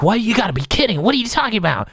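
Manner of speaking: high, disbelieving retort with swooping pitch; mock incredulity. Renji answers Rukia's grim question in mock disbelief.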